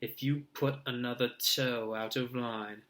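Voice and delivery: lightly put-on shrill mother; mock the nagging mum. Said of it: "a shrill, piercing voice".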